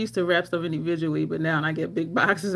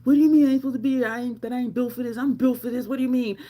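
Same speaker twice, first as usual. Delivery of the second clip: put-on fast, louder defiant teenage retort; mock tough teen; 4 semitones higher, 3 dB louder, faster than usual. Teen boy at jail, fast mock tough comeback. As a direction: puff up like a tough kid.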